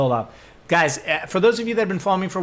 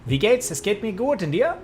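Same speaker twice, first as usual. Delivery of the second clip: German small talk, pitched up; 5 semitones higher than usual. Shown as a demonstration. Showing viewers his German, higher-pitched German greeting.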